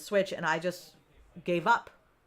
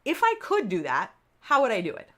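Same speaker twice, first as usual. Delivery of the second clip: curious self questioning; 4 semitones higher than usual. Shown as a demonstration. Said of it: "ask yourself".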